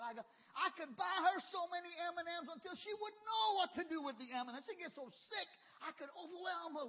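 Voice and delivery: builds to a big preaching shout; building shout. Real, not acted. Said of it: "preaching climax, building shout".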